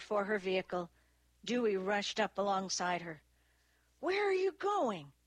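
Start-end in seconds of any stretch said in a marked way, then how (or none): 4.0-5.1 high-pitched urgent question; agitated demand. A narrator's reading. Dewey rushes up alongside departing Annie, agitated demand. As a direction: call after someone, pitch jumping high. Chasing Annie as she leaves.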